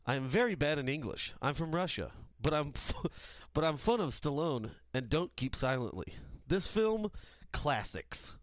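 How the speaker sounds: mock Russian accent reading; broken English in a Russian accent. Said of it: "Sorry my, for my bad English".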